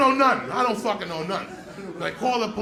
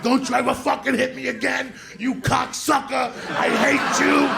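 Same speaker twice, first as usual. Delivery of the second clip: higher, drawn-out angry shout; retold tearful rage; 4 semitones higher than usual. Boy lashing out at the nun who hit him, enraged shout. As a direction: scream out years of anger and pain, acting it out. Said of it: "And I'm just crying. This is seven years of anger and pain".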